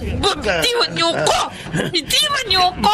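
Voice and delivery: woman cries out as the attacker grabs her; desperate plea. Acted. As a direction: struggle free, pleading.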